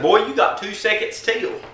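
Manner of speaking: high-pitched mock warning; retold threat. Narrator warning the neighbor closing in, high mock threat.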